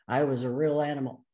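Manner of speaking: quick low retelling of the Gestalty voice. Retold or imitated. Therapist retelling the child's gestalty first take, lightly voiced. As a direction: rattle off the child's stock phrase, lightly voiced. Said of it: "he says it in, in the Gestalty voice first".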